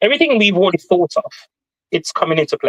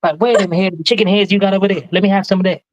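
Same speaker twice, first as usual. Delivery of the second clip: put-on Southern accent; 3 semitones higher than usual. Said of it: "he called himself impersonating Southern folk".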